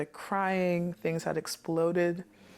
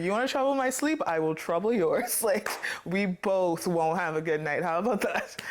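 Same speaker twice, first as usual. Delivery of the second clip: mock challenge, pitched up at the start, breaking into a laugh; playful threat; 2 semitones higher than usual. Warning Satan off troubling her sleep, playfully defiant. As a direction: throw down a joking threat with a laugh.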